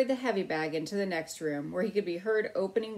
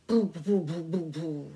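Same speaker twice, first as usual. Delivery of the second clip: puttering boo engine sound; motorcycle noise; 3 semitones lower, 3 dB louder than usual. A narrator's reading. Boy playing with toy motorcycle, puttering engine noise. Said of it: "making noises with his mouth".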